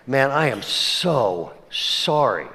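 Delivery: slow, drawn-out apology; acted apology. Pastor turning down his buddy's money request, apologetic. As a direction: stretch out a reluctant apology. Retold reluctant apology on phone.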